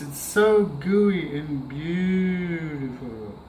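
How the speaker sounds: slow, drawn-out gushing over the cheese, lightly put on; mock gushing voice. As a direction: stretch "so gooey and beautiful" like a doting TV cook, a hint only. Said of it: "I know who I sound like when I say that".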